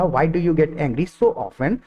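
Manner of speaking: very slow, word by word; slow model sentence. Shown as a demonstration. Teacher modelling a question for students, very slow. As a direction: stretch each word out for learners. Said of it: "तो इसके अंदर सब आ गया".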